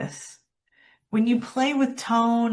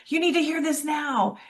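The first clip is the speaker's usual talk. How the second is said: urgent; 5 semitones higher than usual. Shown as a demonstration. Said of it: "Speed up when you want urgency".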